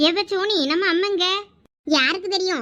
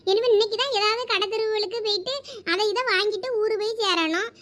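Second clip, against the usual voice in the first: ordinary talk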